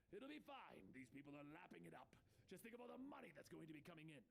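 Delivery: a hint of greedy showman, hurrying at the end; Penguin, gleeful. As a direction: brush off the worry lightly.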